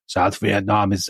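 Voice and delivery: slow, half-hearted German accent attempt, barely different; a light stab at a German accent, soon given up; failed Kissinger accent. Host quoting Kissinger, botched slow German accent. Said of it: "I can't do his accent".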